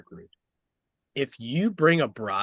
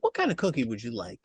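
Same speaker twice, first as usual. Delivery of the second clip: light imitation of a Southern accent. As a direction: offer it with a hint of Southern hospitality accent. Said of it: "In her Southern accent".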